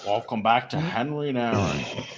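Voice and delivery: slow, put-on Asian-accented welcome; drawn-out imitated Asian-accented greeting; mock Asian accent. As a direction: repeat the parody intro slowly in an Asian accent. Repeats the mock accent intro.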